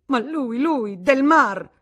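loud, high, slow shout on the name; angry shout. A narrator's reading. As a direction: hurl the name out in rage. The Vatnaz rages at Del Mar. (grido furioso e lento)

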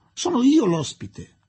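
high, loud, slow insistence; insistent. A narrator's reading. Aziz as the host to his guests, insistent. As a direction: press the point emphatically. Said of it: "insisteva Aziz".

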